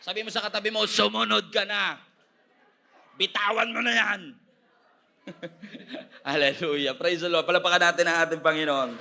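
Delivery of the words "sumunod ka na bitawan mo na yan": raised, higher preaching voice; forceful, insistent exhortation; loud command. Acted. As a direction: call it out as an order to the congregation. Preacher voicing God's urgent command.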